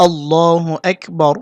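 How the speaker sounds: slow, careful Arabic recitation of আল্লাহু আকবার; teacher drawing out আল্লাহু আকবার slowly; slow recited takbir. Shown as a demonstration. Teacher demonstrating the azan to students, slow and careful. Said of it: "এই শব্দটা দুইবার বলতে হবে".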